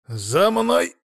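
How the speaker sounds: high, loud bird-like caw; cawed command. A narrator's reading. Familiar leading the hero between houses, cawing. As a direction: caw it with a rising pitch. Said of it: "каркнул фамильяр".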